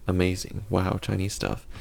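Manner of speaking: flat, deadpan fake enthusiasm; sarcastic. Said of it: "I sense a little bit of sarcasm".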